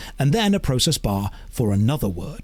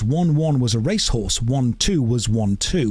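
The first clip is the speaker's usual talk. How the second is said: slow tongue twister; slower than usual. Shown as a demonstration. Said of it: "the tongue twister is".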